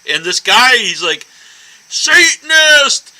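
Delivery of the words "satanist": slow, drawn-out threatening yell, pitched up and loud; angry stranger yelling. Retold or imitated. Stranger in Boston yelling at her over a horror shirt, slow menacing shout. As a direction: bellow each word like a street thug picking a fight. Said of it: "He's yelling at me".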